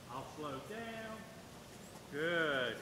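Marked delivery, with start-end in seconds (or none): 2.1-2.8 low, drawn-out praise for a dog. Real, not acted. Trainer to his dog after it comes, low praise. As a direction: drop the pitch and stretch the praise.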